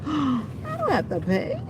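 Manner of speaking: gasp, then lift the pitch in glee; delighted surprise. Real, not acted. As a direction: sound amazed that it's free.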